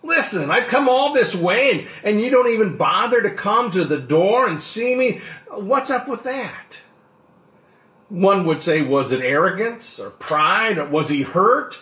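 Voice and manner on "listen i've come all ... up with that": mock grumbling. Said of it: "mumbling to himself".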